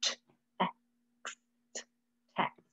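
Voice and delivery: put-on "text" sounded out for a child; sounding out. Shown as a demonstration. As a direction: say "text" slowly, sounds apart. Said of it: "Sound it out".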